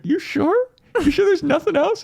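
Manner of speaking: high, pleading questions; high plaintive asking. Retold or imitated. Nishi turning back pleading.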